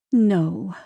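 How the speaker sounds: sighing. A narrator's reading. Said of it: "Evelyn sighed".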